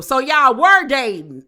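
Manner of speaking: retelling Eliza's question while cracking up; laughing question. Retold or imitated. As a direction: blurt it out through a laugh. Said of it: "Eliza then jump in".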